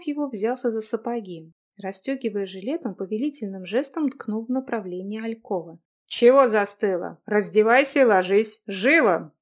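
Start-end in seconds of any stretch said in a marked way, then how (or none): 6.1-9.3 loud order. Acted. Young man orders girl.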